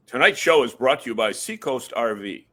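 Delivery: smooth radio announcer read. Shown as a demonstration. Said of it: "In your best radio voice".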